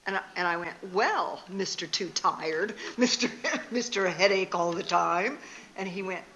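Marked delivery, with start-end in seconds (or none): 0.9-5.4 sarcastic retort. Retold or imitated. Wife with a bad attitude to her husband, retold sarcastic jab. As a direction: drag out the opening, needling him lightly. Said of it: "having a bad attitude".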